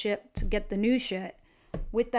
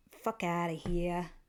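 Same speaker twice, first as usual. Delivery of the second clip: low, hushed voice with New Jersey accent; 5 semitones lower, 6 dB quieter than usual. Offering listeners a mantra for the day, in a New Jersey accent. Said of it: "I just did say it in a New Jersey accent".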